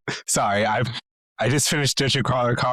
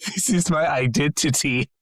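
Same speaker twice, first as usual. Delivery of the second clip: laughing; 4 semitones higher than usual. Real, not acted. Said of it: "I have to commit now".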